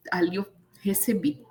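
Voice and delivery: a real hushed whisper, unvoiced. Real, not acted. She whispers about receiving God's word in church. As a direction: breathe it like a secret you hold dear.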